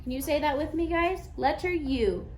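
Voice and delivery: put-on singsong teacher voice for little kids; broad singsong kids theatre. Shown as a demonstration. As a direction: sing it out to a preschool class. Teacher demonstrating U sounds.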